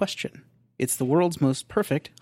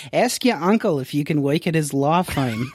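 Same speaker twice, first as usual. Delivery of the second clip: Jewish guy voice; 3 semitones higher, 4 dB louder than usual. Acted. Makes up a sample response.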